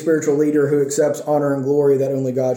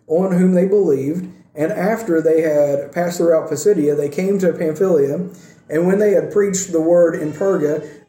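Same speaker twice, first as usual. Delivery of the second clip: slightly raised, measured reading voice; scripture reading; 3 semitones higher than usual. Real, not acted. Preacher reading the passage to church, in a lifted reading voice. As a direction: read the verses aloud to a congregation.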